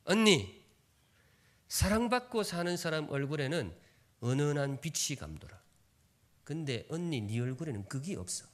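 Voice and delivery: put-on younger sister snapping at her older sister; sharp retort. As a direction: cut her down with a cold jab. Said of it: "동생이 언니한테 쏘아붙이는 대사".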